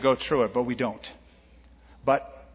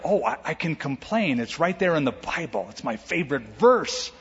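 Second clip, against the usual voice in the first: mock whining complainer. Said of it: "Blessed are the whiners".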